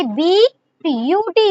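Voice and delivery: ब्यूटी split into बी and यू टी; broken into sounds. Shown as a demonstration. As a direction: say बी, then यू टी, as separate sounds. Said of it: "पहले आपकी कैसी sound आ रही है".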